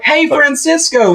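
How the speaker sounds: high, slow call for a player's attention; retold heckle call. Fan calling to the shortstop from the stands, retold high call. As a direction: imitate hollering to the field, high and stretched. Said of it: "I shouted at him".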